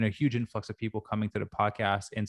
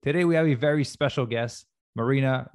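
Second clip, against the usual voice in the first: morning show host. Acted. Host opening the podcast episode.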